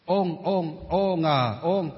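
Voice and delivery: "ôn" as said in Huế, spelt out "ô ngờ ôn"; Central Vietnamese pronunciation. Shown as a demonstration. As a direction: sound out "ôn" the Central Vietnamese way, repeated. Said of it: "nhưng mà thì họ gọi là ôn". (đọc "ôn" theo giọng miền Trung)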